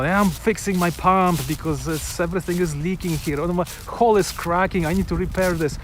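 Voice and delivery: lightly voiced sailor, mock panic; hammed-up complaints about the broken boat; mock dramatic skipper. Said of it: "it's so dramatic".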